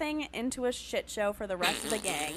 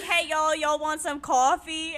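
put-on higher-pitched New York accent on a Southern greeting; 4 semitones higher than usual. Newcomer offers Texans coffee, New York accent slipping out. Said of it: "New York accent comes out so hard".

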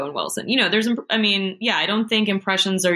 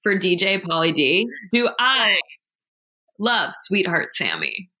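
slow, emphatic rhetorical questions; mock incredulous. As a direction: draw out each question as if it's absurd to ask. Mock-indignant rhetorical questions about fandom.

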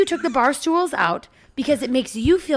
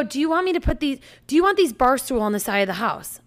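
mocking retelling of the ask; 3 semitones higher than usual. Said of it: "You go".

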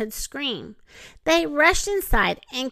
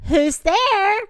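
high, louder fake old-lady voice; wolf putting on a grandmother's high voice; imitation old lady; 8 semitones higher, 5 dB louder than usual. A narrator's reading. Wolf calling from the bed, faking the old lady. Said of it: "trying to imitate the old lady's feeble voice".

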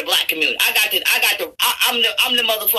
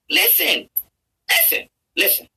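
high-pitched plea to listen; insistent; 9 semitones higher than usual. Real, not acted. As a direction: demand their attention, pitched up high. Demands attention from his viewers.

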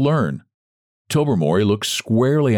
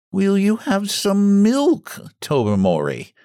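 slow, higher and tense; strained hostess; 11 semitones higher, slower than usual. A narrator's reading. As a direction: offer the milk nervously. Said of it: "in a rather strained voice".

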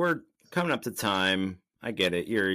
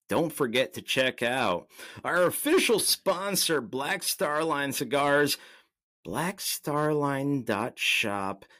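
slow, higher sponsor read; 3 semitones higher, slower than usual. Acted. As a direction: spell out the sponsor plug slowly.

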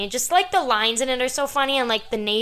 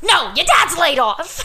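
higher, slow, laughing mailman line; mailman impression; 7 semitones higher, 6 dB louder, slower than usual. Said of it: "Who says that? The mailman".

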